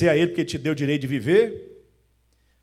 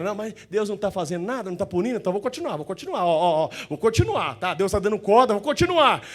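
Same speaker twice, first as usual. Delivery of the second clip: mock carefree sinner; 3 semitones higher than usual. Mocking a careless sinner.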